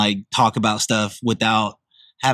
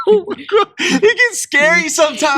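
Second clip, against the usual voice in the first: very high laughing shriek; witch laugh; 3 dB louder than usual. Real, not acted. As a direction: cackle through the words.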